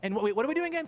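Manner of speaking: bad Australian that comes out English; confused question, then small apology; mimicking co-host. Impersonating the confused co-host, botched accent. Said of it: "Why am I English?".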